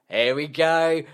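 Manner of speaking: like the drop is about to hit; building excitement. Retold or imitated. Waiting for the riff, excited. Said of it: "we're going".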